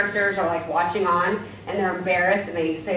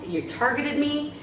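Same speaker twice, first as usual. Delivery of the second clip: mock offended; 7 semitones higher, 3 dB quieter, slower than usual. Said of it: "my personal narrative becomes".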